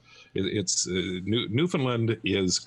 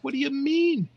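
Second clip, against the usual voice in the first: puzzled wife; 4 dB louder, slower than usual. Acted.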